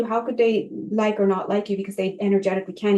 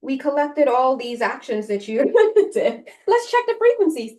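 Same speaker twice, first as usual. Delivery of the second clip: playful afterlife reviewer; 2 semitones higher than usual. Pretend. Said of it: "all you're gonna see is this".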